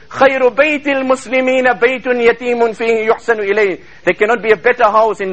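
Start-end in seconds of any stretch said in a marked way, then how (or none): 0.1-3.8 rapid chanted Arabic quotation; Arabic recitation. Acted. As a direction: rattle off the Arabic saying in one breath.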